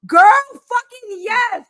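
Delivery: high, loud, slow gushing yes; imitating eager yes. Wife imitates her husband eagerly gushing yes, high and loud. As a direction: ham up his eagerness. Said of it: "He goes".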